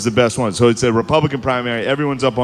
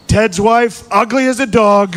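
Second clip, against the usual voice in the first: higher, louder Trump jab; Trump impression; 9 semitones higher, 4 dB louder than usual. Comic retelling Trump's debate insult, higher. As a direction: toss it off like Trump. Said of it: "he's just like".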